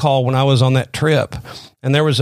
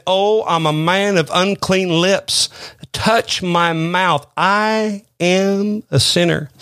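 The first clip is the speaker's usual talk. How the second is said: slow, drawn-out, higher-pitched confession; solemn confession; 4 semitones higher, much slower than usual. Acted. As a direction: stretch each word in earnest admission. Acts out Isaiah's confession before God.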